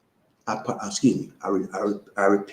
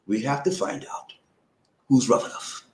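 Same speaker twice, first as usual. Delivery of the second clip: slow; 3 semitones lower, 8 dB quieter than usual. Shown as a demonstration. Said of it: "I gotta say this slow".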